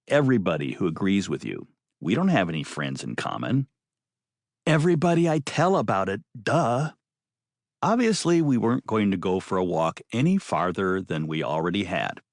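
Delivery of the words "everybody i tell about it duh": dismissive. Acted. Maddie dismissive.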